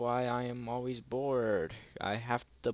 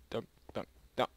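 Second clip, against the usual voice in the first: pleading; 3 semitones higher, 4 dB louder than usual. Real, not acted. Begging seeker not to enter.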